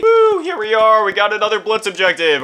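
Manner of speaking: high, loud woo easing into speech; hyped-up gamer announcement; excited whoop. Real, not acted. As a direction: cheer as the next challenge arrives. Cheering arrival of new game objective.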